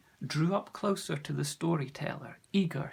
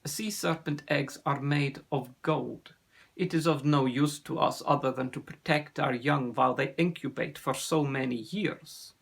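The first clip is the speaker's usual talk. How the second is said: put-on measured, accented answer; knowing sea serpent; 5 dB louder than usual. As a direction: offer the answer in a lightly voiced accent. Ossian explains.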